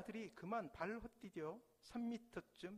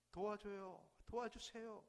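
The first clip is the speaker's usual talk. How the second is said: urgent cry for help; 4 semitones higher than usual. Acted. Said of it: "아들은 다급하게 외칩니다".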